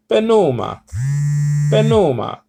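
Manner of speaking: "pneuma" with a light Italian lilt; a hint of Italian accent on puh-NOO-ma; Italian-style accent. Shown as a demonstration. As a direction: say it as a Greek would, sort of Italian. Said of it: "with sort of an Italian accent".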